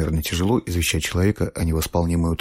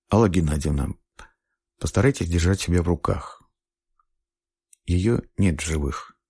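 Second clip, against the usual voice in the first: gentle. A narrator's reading. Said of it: "с острой жалостью".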